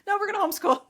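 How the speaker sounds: insistent repeat. Retold or imitated. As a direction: hammer it home the second time round. Repeating it after husband's "What?.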